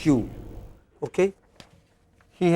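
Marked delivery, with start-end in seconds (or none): 0.0-0.3 Hu alone, as the stressed syllable; stressed first syllable of Human. Shown as a demonstration. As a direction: isolate Hu to show where the stress falls. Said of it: "first syllable".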